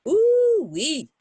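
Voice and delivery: high, loud delighted ooh-wee; excited ooh-wee. Real, not acted. Reader to kids, hungry for ice cream, loud delighted squeal. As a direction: squeal it like a treat is coming.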